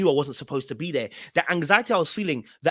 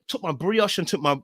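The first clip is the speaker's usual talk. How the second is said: ordinary talk, nothing marked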